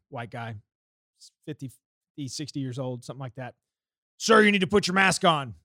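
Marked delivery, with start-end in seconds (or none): 4.2-5.5 mock stern enforcer. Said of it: "he's beelining at me".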